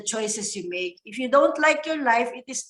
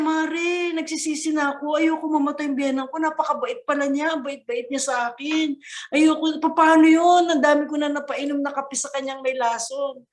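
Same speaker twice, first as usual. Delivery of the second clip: mock remorseful pleading; 5 semitones higher than usual. Remorseful wife pleads with friend.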